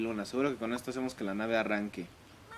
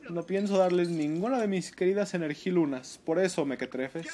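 lightly voiced haughty middle-aged lady; a hint of a snooty lady villain; man doing a woman's voice; 4 semitones higher, slower than usual. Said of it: "Estoy hablando como señora, con crisis de mediana edad".

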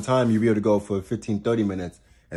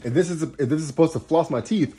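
rising, eager lead-in; worked-up setup; 5 semitones higher than usual. Real, not acted. Astrologer building toward her punchline, worked up. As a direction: set up the punchline with heat. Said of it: "I'm getting a little worked up".

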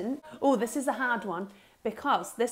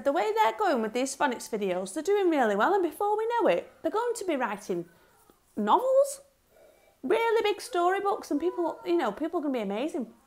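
gushing, higher praise of the class; retold praise; 6 semitones higher than usual. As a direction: brag about the pupils to Mrs Lawson. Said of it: "I said".

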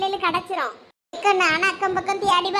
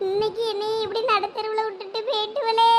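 singsong acted lament; tearful wailing. Mother laments to a neighbour about facing her husband, tearful wailing. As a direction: stretch key words into a helpless wail. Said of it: "இங்க நின்னு அழுதுகிட்டு இருந்தா".

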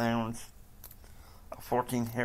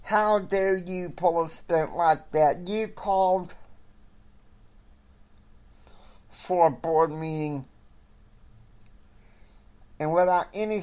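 angry boss rant; 5 semitones higher than usual. Acted. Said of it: "he's losing it".

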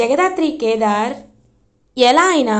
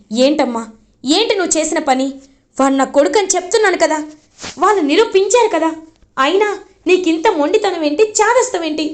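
raised, higher voice chiding his mother; angry scolding; 4 semitones higher than usual. Acted. Son angrily scolding his stubborn mother, raised voice. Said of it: "అలా ఇంకా కోపంగా".

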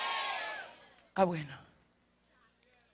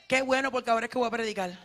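laughing; much faster than usual. Real, not acted. Joking with congregation, laughing.

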